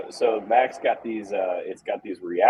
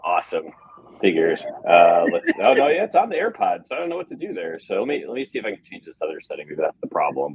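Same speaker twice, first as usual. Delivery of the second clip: tin can phone; 2 semitones lower, 3 dB louder than usual. Real, not acted. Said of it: "Sounds like you're talking into a tin can".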